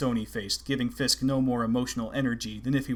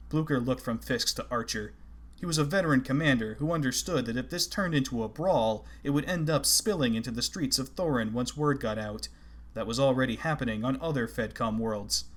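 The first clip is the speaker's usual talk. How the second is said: ordinary delivery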